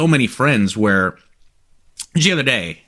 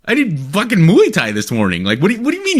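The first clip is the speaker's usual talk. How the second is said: higher, emphatic disbelieving retort; incredulous brag; 7 semitones higher, 3 dB louder than usual. Retold or imitated. Telling the thirty-nine-year-old assistant, incredulous and louder. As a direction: scoff at her calling herself old. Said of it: "I go".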